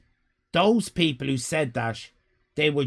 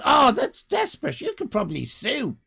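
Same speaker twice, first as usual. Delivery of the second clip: mock outrage; 8 semitones higher than usual. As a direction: overplay the pity. Mock sympathy to viewer.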